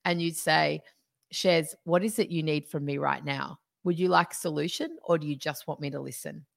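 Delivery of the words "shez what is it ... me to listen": calm voice. Retold or imitated. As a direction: ask it gently, just checking in. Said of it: "you'd say it in a calm voice".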